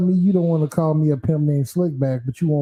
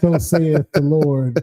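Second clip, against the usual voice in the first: biblical preacher; much slower than usual. Pretend. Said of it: "I'm gonna get biblical".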